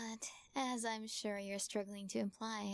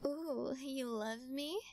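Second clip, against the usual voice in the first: delighted coo; 3 semitones higher, slower than usual. Acted. Cat confesses love.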